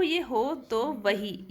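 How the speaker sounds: ये हो तो वही drawn out syllable by syllable, each beat separated; slow syllable count. Shown as a demonstration. Teacher counts syllables for students, slow and deliberate. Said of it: "अब देखो".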